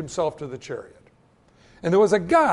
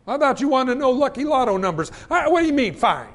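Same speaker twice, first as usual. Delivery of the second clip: comically put-out retort, raised pitch; mock protest; 5 semitones higher, 3 dB louder than usual. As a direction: keep up the playful indignation. Acted protest goes on.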